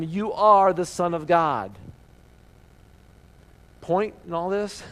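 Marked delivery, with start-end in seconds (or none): 0.0-1.7 slow, louder mock cry of the possessed; a hint of shrieking. Preacher voicing spirits falling before Jesus, lightly shrieking. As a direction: lightly act the spirits crying out. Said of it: "fall down shrieking".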